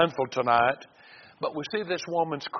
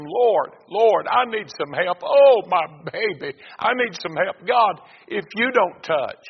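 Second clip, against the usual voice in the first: raised-pitch pleading, mildly acted; crying plea; 4 semitones higher, 4 dB louder than usual. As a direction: cry out to God as a desperate mother. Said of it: "She's crying".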